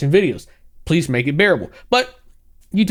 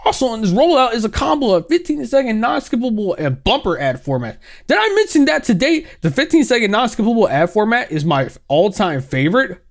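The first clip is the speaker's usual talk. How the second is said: higher, giddy ad-man read; mock gleeful CEO; 5 semitones higher than usual. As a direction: relish every word of bad news. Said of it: "that's so evil".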